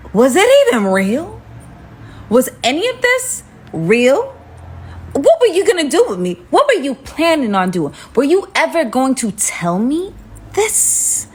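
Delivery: hurt, incredulous questioning; acted confrontation. Storyteller confronting the date in the car, mock incredulous. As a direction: demand answers, pitch rising to the end.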